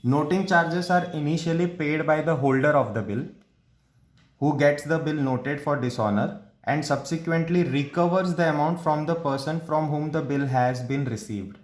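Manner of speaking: slow, emphatic textbook read-out; measured, deliberate recitation of a rule; reading out a definition. Real, not acted. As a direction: read it phrase by phrase, slowly and distinctly.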